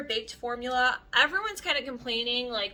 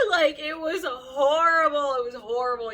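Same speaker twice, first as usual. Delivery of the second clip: crying voice; 5 semitones higher, 8 dB louder than usual. Retold or imitated. Reliving the spatula breakdown.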